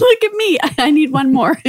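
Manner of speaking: laughing at herself. Real, not acted. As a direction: giggle through it. Laughing at own greed.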